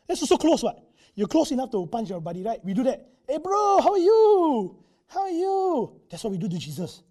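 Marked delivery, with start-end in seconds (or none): 3.3-6.0 mock bro greeting. Overfamiliar greeting, "we do that.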